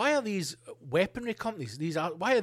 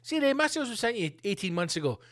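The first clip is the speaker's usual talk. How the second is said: arms salesman; 4 semitones higher than usual. Retold or imitated. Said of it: "and they say".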